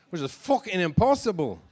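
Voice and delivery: put-on a clumsy stab at an Irish accent, as his wife would sound; a half-hearted Irish lilt on the punchline; bad Irish accent. Comic telling the crowd about his wife, in a bad Irish accent. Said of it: "That was a bad Irish accent".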